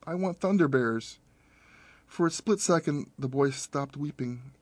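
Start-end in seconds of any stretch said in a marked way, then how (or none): 0.1-1.2 put-on crying child. A narrator's reading. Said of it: "He started to cry".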